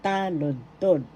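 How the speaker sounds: slow "Taludtod" as TAA-lud-tod; first-syllable stress. Shown as a demonstration. Teacher shows the accent, slow "Taludtod" stressed on ta. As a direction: lengthen the "ta" in "Taludtod". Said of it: "The accent is in the first syllable".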